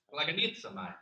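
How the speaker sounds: Greek word said with a light Italian accent. Shown as a demonstration. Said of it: "I had to do an Italian accent there".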